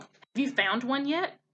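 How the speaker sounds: croaking frog. Acted. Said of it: "croaked the first frog".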